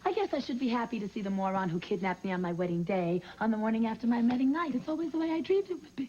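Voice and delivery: sarcastic. Acted. Bitter mock romance.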